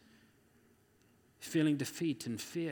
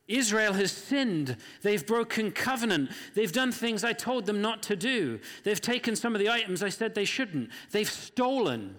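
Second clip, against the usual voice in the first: stern barking God; 5 semitones higher than usual. Acted. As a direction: bark the accusations down at him, stern and deliberate. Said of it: "And God barks at Joshua".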